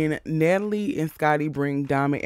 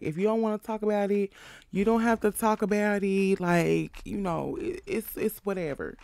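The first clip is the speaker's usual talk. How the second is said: higher, fast, fake-gentle nosy voice fading to a hush; mocking Jayla; 5 semitones higher than usual. Mimicking nosy Jayla asking Tasiki, higher fake-gentle voice fading to a hush. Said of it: "Jayla nosy ass brings up Krishan and asks".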